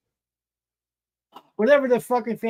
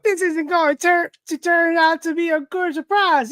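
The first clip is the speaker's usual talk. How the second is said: Joker; 8 semitones higher than usual. Acted. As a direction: pitch it up and stretch it as a comic-book villain. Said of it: "All right, Joker".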